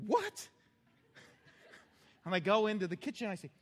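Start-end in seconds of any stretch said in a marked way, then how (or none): 0.1-0.5 very high mock puzzled husband; a startled mock what; hammed-up confused old man. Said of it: "He's like".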